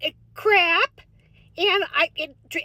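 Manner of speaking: put-on folksy Minnesota accent, chatty and sing-song; light Upper Midwest accent with long round vowels; Minnesota soccer mom voice. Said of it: "Minnesota soccer mom voice".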